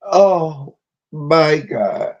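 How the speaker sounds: very slow, tearful exclamation; overcome, drawn-out cry. Real, not acted. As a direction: drag it out through real tears. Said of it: "Every time I cry".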